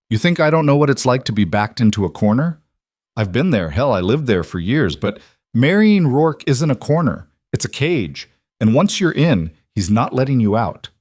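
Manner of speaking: heated, rising into a near shout; pushed hard, voice climbing; angry. Acted. Jonah's rising outburst.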